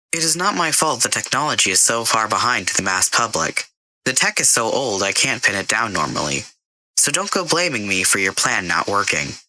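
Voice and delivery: a computer voice that won't take the blame; a hint of a prim AI. Karen the AI answers Jason.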